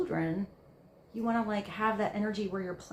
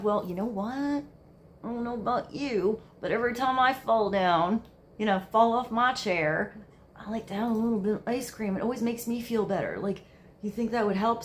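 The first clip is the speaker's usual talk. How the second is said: put-on relating to the kid; 5 dB louder than usual. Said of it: "you're, like, both relating to the kid".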